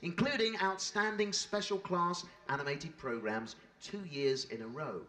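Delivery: measured, formal tribute narration; polished stage-host read; scripted presenter read. Real, not acted. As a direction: present the show's achievements to an audience. Host reads scripted show introduction.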